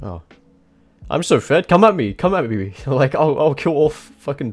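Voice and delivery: high mock-cocky come at me; cocky taunt. Gamer retelling his own cocky thought, high mock taunt. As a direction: taunt the enemy team like an invincible fed player. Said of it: "I'm just like".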